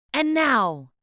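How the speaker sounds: high, loud call; cried out. Acted. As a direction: announce it to the whole forest. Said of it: "cried Max".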